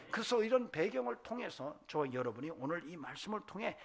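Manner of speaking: loud, earnest pulpit exhortation; fervent preaching. Real, not acted. Preacher urging listeners to hear God's voice, fervent preaching. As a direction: carry the appeal out to the whole congregation.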